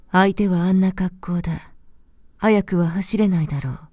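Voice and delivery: ordinary delivery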